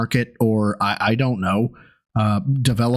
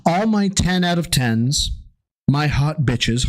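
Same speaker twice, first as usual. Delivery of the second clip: mock explaining; slower than usual. Shown as a demonstration. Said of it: "let me get the quote".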